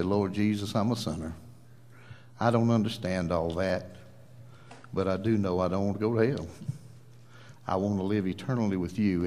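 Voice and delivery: low, subdued sinner's prayer; model prayer. Shown as a demonstration. Preacher showing listeners how to accept Christ, prayerful. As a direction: demonstrate a humble prayer, pitched low. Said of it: "and just say".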